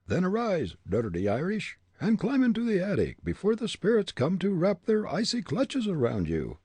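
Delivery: high ghostly ventriloquist's order; high threatening spirit voice; commanding talking head. A narrator's reading. Head orders the Irishman away.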